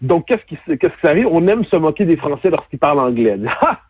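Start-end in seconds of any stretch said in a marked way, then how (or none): 3.6-3.8 short, high mocking "ha!"; mock derisive laugh. Québécois mocking the French speaking English, derisive laugh. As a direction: laugh as if making fun of someone.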